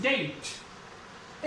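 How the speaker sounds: "डेट" whispered very slowly, drawing out the vowel glide; teacher's whispered pronunciation demo; whispered slow model word. Shown as a demonstration. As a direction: breathe out "डेट" in one long whisper. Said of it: "ई की sound और टे की sound".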